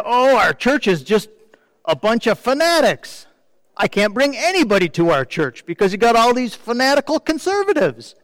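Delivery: hammed-up grumble about the fanatics; complaining liberal member. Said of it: "the liberal side also complained".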